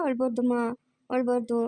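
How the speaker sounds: put-on lifted, coaxing baby-talk voice; soothing baby talk. Cooing to a crying baby.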